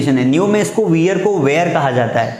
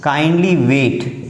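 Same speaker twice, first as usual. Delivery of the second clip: very slow and deliberate; slow teaching read; 3 semitones lower, much slower than usual. Shown as a demonstration. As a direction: stretch each word for the class. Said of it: "kindly लगा दिया".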